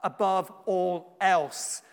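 drawn-out "Above all else"; "Above all else" stretched slow and deliberate; slow emphasis. Shown as a demonstration. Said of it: "emphasizing the first part".

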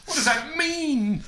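slow, high, still laughing. Real, not acted. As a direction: ask through leftover laughter. Baffled after laughing.

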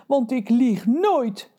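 high, slow stammering giant. Acted. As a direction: stutter it out, scared of the mother. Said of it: "stamelde Reus". (hoge, trage stamelende reus)

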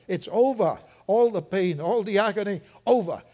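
excited proclamation. Real, not acted. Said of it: "Get excited".

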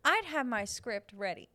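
lightly voiced old Hollywood actress; a hint of a vintage starlet; old-timey starlet interview. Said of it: "a response in an interview, in an old-timey interview".

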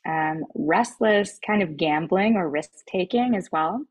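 talking with mouth full; chewing grapes between words; eating grapes. Real, not acted. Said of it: "Sorry, I'm eating grapes".

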